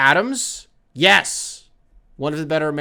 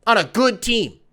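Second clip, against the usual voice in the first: intervention voices; 3 semitones higher than usual. Retold or imitated. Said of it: "And they're like".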